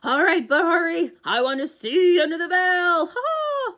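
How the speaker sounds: a monster faking a gentle tone, then laughing; Cyclops voice. Acted. The Cyclops speaks in disguise.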